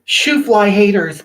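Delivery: drawn-out, punchy "Shoo fly haters"; sassy dismissal. Real, not acted. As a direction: wave the haters off with sass. Brushing off an insulting commenter.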